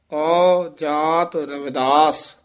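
slow ਔ ਜਾਤ said as separate words; separate reading. Shown as a demonstration. Teacher shows the separate reading of ਔ ਜਾਤ, then a ਠਮਕ. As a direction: split ਔ ਜਾਤ apart slowly. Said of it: "ਇਹ ਵੱਖਰਾ ਪਾਠ ਕਰਨਾ ਹੈ".

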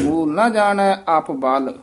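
ਆਪ ਬਲ loose, nothing doubled; soft pronunciation. Shown as a demonstration. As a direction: say ਆਪ ਬਲ without pressing the consonants. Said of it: "ਪੋਲਾ ਉਚਾਰਨ ਕਰਨਾ ਹੈ".

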